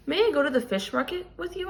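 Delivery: lightly voiced child begging her father; asking. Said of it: "I asked".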